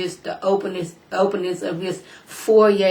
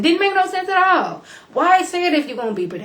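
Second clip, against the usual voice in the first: exasperated disbelief; 11 semitones higher than usual. Real, not acted. Complaining about bleeped-out TV words.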